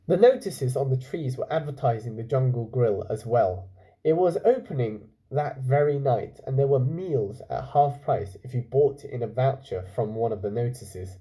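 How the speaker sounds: calm storytelling voice; story narration. A narrator's reading. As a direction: read it like a bedtime story. Reads story aloud.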